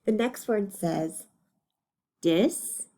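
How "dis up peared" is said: DIS-UP-PEARED in three separate beats; long gaps between the parts of DIS-UP-PEARED; broken into syllables. Shown as a demonstration. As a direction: sound out DIS-UP-PEARED part by part. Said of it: "read them when they're broken up".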